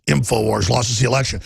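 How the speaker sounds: scornful impersonation of Hillary; mock Hillary. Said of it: "she goes".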